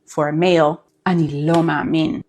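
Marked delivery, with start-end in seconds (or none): 1.1-2.2 devastated disbelief, weight on לא; devastated intonation. Shown as a demonstration. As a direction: say "אני לא מאמין" as stunned by terrible news, leaning on לא. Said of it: "It is devastated intonation".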